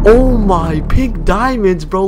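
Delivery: loud, high jackpot excitement; thrilled. Real, not acted. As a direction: crow over a rare treasure find. Finds diamonds in a chest.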